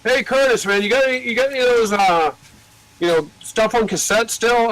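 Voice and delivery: a hint of an eager record-label guy asking; imitating the label guy. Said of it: "Revelation calls me and said".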